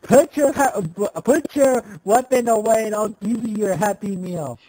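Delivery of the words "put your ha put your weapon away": urgent order. Acted. Acted standoff, ordering weapon down.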